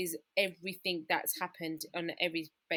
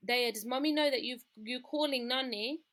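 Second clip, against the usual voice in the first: higher-pitched imitated nan questioning a child; grandmother's voice; 4 semitones higher than usual. Nan on the phone to her grandchild, imitated questioning. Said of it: "I could hear my mum's voice saying".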